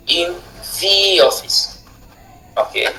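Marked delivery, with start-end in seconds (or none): 0.1-1.8 the office with the stress on office; corrected phrase. Shown as a demonstration. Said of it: "on ne dit pas in the office, mais". (in the office avec l'accent sur office)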